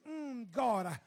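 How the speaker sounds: wordless groans breaking into "Lord Jesus"; moaning, crying prayer. Retold or imitated. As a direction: moan out a plea for mercy. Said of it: "Just, just that moan, that cry".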